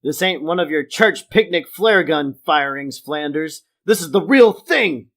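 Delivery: scolding. Acted. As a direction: chide Flanders with emphatic force. Acting Homer's line from episode.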